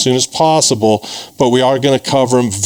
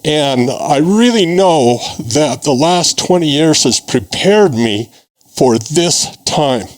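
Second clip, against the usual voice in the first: a little emotional. Real, not acted. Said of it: "I apologize if I'm a little emotional".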